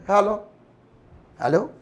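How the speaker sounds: a hello, then its fainter delayed echo. Shown as a demonstration. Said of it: "this is প্রতিধ্বনি".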